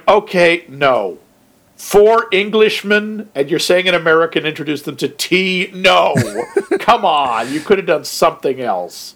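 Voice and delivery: incredulous. Retold or imitated. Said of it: "I remember watching it going".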